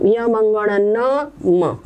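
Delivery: very slow, drawn out, sound by sound; slow recitation. Shown as a demonstration. Teacher slowly recites the nasal letters for the class. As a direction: spell out य मंगण न म slowly for students. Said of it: "इसीलिए हमने लिख दिया".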